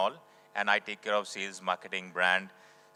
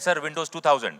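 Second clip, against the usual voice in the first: laughing, loud and eager, as if proud of the answer; 5 semitones higher, 7 dB louder than usual. Retold or imitated. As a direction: blurt it out through a laugh, sure he's right. Retelling his own eager answer.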